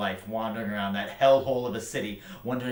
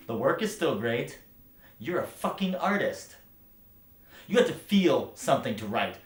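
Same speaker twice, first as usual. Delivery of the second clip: loud defiance building higher; impassioned rant; 6 semitones higher, 9 dB louder than usual. Acted. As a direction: build from raised voice to a high, loud outburst. Acted rant building to an outburst.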